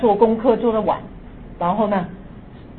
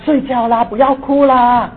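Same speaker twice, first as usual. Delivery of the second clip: comforting; 4 dB louder than usual. Retold or imitated. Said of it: "就安慰我了".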